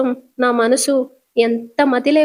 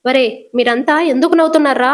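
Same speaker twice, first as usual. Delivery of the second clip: a touch of retold anger, slightly louder; angry demand; 4 dB louder than usual. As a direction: voice her irritation as she snaps at them. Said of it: "Joshna కోపం వచ్చి". (కొంచెం కోపంగా అడగడం)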